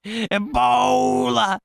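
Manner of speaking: high, loud panicked yelling; retold yell. Eighth grader running down the hallway, yelling a warning, panicked shout. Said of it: "he's yelling".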